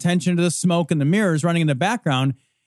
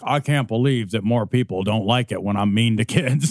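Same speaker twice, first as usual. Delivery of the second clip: mock self-pity; 7 semitones lower than usual. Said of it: "he's like".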